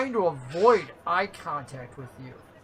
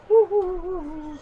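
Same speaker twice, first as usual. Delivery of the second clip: mock cheer; 9 semitones higher than usual. Cheering as chips are pocketed.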